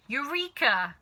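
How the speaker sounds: loud eureka shout; a sudden discovery; triumphant cry. A narrator's reading. Mister Cranky finding the answer, triumphant cry. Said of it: "cried Mister Cranky".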